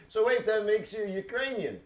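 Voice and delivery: high-pitched incredulous question; retold confused challenge; mock puzzlement. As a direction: imitate baffled disbelief, pitch right up.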